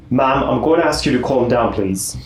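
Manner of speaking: put-on a light, half-hearted British accent; a mild British accent, barely there. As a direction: try a polite British officer, lightly done. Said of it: "my best attempt at a British accent".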